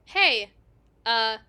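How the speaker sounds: loud, happy "Paisan" called out; Italian meeting another Italian, excited call; excited greeting. Acted. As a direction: greet a fellow countryman with delight. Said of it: "you're Italian seeing another Italian".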